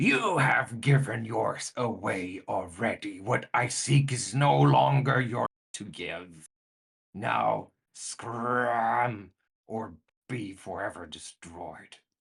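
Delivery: full-throated booming bellow, "scram" drawn out. Game master voicing a figure that seems to grow bigger over the players: bellowing. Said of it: "it like bellows out and says".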